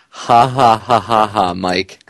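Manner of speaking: gloating ha ha ha, aimed at Mike; mocking laugh. Host gloating over Mayor Mike, mock laughter. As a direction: laugh right at him in triumph. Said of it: "All I can say is".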